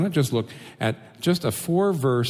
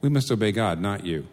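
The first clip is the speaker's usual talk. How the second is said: calm. Retold or imitated. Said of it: "they very calmly say".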